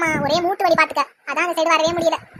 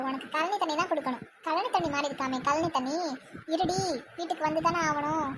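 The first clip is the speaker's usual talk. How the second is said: resentful aside; 7 dB quieter than usual. Acted. Daughter-in-law plots revenge over the insulted tea, grumbling aside. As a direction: grumble softly behind her back.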